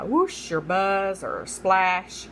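slow, drawn-out onomatopoeia; stretched demonstration of sound words; sound-imitating words. Shown as a demonstration. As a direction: draw out each word like the sound it names. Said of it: "words that imitate sounds".

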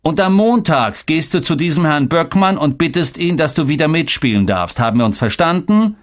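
stern, heated parental demand; thundering father. A narrator's reading. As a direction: lay down the law to your son. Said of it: "donnerte mein Vater".

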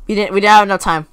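quick, insistent complaint; rushed protest. Real, not acted. Player protesting a lost round, rushed. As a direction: protest it fast and firmly. First reaction to losing round.

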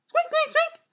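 very high squeaky rat chatter; rat squeaks. Acted.

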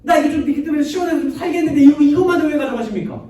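high, loud acted outburst; shouted complaint. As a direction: play Jonah yelling his grievance at God, rushing into it. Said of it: "막 하나님께 소리 지릅니다".

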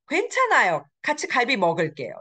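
mildly assuring, starting high and coming down; Jenny. Acted. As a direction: reassure them with a high-pitched opening. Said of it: "She assures".

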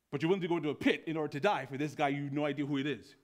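fast, incredulous run-on question; bewildered commandant. Acted. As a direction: rattle it out in disbelief. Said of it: "bewildered, shocked, and awe".

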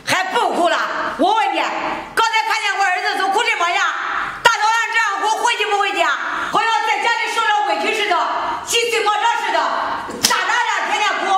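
scornful nagging, pushing hard; harsh scolding. Acted. Mother-in-law berates the crying daughter-in-law, harsh scolding.

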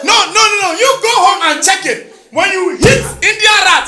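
ordinary talk

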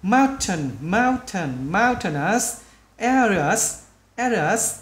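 slow drill, syllables drawn out; slow, word by word. Shown as a demonstration. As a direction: repeat it piece by piece for learners. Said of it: "mình nói chậm từng chữ". (đọc chậm từng chữ)

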